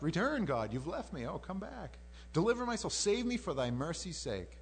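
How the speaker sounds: dramatized cry for rescue; pleading. Acted. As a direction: implore him to return. Voicing David feeling left by God.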